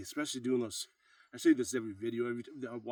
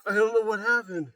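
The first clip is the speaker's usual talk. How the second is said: surprised; 10 semitones higher, 12 dB louder than usual. Real, not acted. Surprised after the set.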